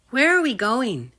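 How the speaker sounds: high, loud eager question. Acted. Drake asks Griffith, high and loud. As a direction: ask brightly. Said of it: "he asked".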